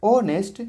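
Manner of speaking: ऑनेस्ट opening straight on the vowel; silent h. Shown as a demonstration. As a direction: model ऑनेस्ट clearly for students. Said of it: "sound में जब ऑनेस्ट आ रहा है". (ऑनेस्ट, एच के बिना)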